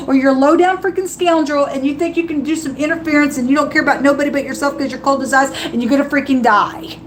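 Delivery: fast, driving preacher's warning; fiery preaching. Acted. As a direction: preach it hard and quick. Preaching judgment to viewers.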